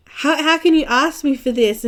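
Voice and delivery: hammed-up shocked teacher voice; mock outraged teacher. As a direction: play the teacher appalled at the question.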